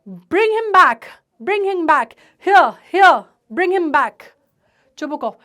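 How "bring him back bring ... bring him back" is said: wailing. Acted. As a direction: wail it, begging him back. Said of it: "and wails".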